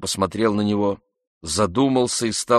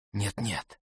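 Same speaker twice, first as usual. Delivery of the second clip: much softer, hushed refusal; lowered voice; 11 dB quieter than usual. A narrator's reading. Oblomov hushes Andrei, worried about the door, quietly. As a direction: keep it down, someone might hear. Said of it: "понизив голос и поглядывая на дверь".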